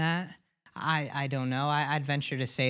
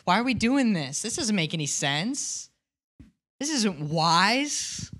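mock angry grumble; 4 semitones higher than usual. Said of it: "they're angry about it".

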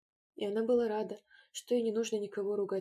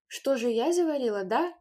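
indignant louder cry; shouting girl; 4 semitones higher, 8 dB louder than usual. A narrator's reading. Taiska to the others, indignant shout. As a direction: throw the blame back loudly. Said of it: "закричала Таиска".

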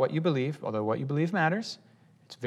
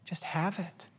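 exasperated; 8 dB quieter, slower than usual. Retold or imitated. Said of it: "And Paul's like".

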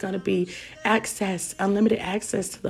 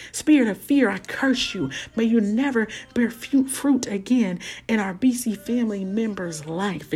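laying a curse. Pretend. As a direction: cast the spirit out boldly. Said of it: "things that we need to curse".

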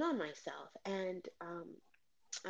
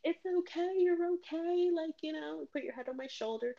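high, cooing reassurance, easing off; retold comforting; 9 semitones higher than usual. Friend comforts crying woman on dance floor, retold soothing. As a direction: imitate a friend soothing someone in tears. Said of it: "And she's like".

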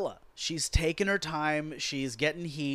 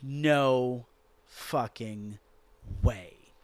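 slow, drawn-out, lower disbelief; stunned as the count reaches seven; 3 semitones lower, much slower than usual. Retold or imitated. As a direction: stretch every word in disbelief. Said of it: "And I'm just going".

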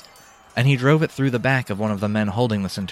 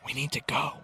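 very soft, higher hushed voice; whispered urging; 6 semitones higher, 9 dB quieter than usual. A narrator's reading. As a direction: urge him close to the ear. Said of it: "she whispered in his ear".

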